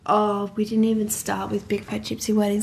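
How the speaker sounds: excited breathy whisper. Real, not acted.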